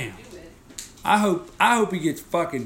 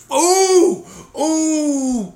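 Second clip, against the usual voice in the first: high delighted laughing squeal; 9 semitones higher, 4 dB louder than usual. Real, not acted.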